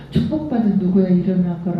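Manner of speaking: loving morning blessing; gentle wake-up call. Retold or imitated. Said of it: "저는 맨날 그랬거든".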